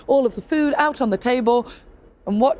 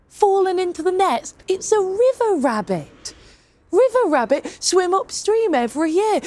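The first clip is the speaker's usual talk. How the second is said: voiced woodcarver; 5 semitones higher than usual. Woodcarver explaining the catch to the tailor, lightly voiced. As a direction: play the woodcarver, sure of himself.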